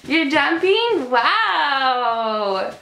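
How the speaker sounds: slow, drawn-out wonder for a little one. Real, not acted. Breaks off to praise a child.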